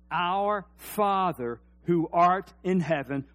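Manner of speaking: slow, even prayer; slow prayer recital. Shown as a demonstration. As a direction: say it slowly with the congregation. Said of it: "Say it with me".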